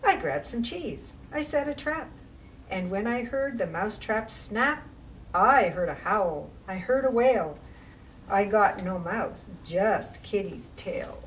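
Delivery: put-on rhythmic read-aloud for children; picture-book reading voice; story narration. A narrator's reading. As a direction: read the rhyme with a bouncing lilt.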